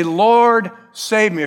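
desperate plea to the Lord; pleading cry. Acted. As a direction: call out to God for help. Crying out to God.

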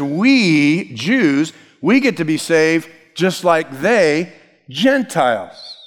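"We" and "they" leaned on, "Gentiles" set apart slowly; stress on THEY, Gentiles. Retold or imitated. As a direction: land hard on "they", then spell out "Gentiles". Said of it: "he's actually putting the emphasis on the Gentiles".

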